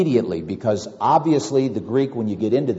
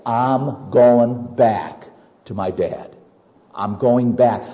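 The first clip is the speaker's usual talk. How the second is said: slow, lower, homely retelling with dad; casual paraphrase; 4 semitones lower, slower than usual. Retold or imitated. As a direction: make it sound like a son talking about his dad. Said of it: "he said".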